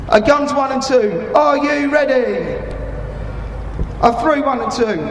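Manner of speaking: slow, measured fire mission orders; calm radio call for fire. Acted. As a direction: read each order out steadily. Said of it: "You will hear me talking to them".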